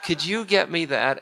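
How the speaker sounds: high, laughing coo; high pleading sweetheart voice; Sita coaxing. Acted. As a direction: beg sweetly through a laugh. Sita repeats coaxing request.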